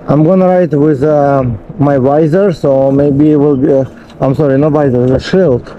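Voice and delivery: muffled behind a face shield; talking through a closed helmet visor; inside a helmet. Real, not acted. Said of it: "not sure if you can hear me well".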